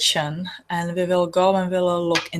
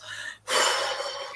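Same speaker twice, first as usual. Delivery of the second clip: breathing out; 5 dB quieter than usual. Shown as a demonstration. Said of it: "you breathe it out".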